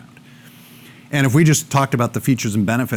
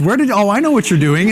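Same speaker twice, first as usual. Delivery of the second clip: inner voice; 10 semitones higher, 6 dB louder than usual. Retold or imitated. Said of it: "your head goes".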